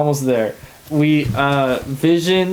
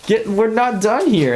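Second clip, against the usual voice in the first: higher, frantic imitation of Vision begging her to stop; half-hammed panic, pitched up; mock panicked protest; 8 semitones higher, slower than usual. Vision pleads with Wanda not to end the episode, mock frantic. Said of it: "He's freaking out".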